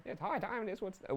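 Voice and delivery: mock British accent. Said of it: "they said it in a British accent".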